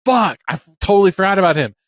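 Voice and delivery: retold shock of remembering someone; startled realisation. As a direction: blurt it out as it suddenly hits you. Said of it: "I was like".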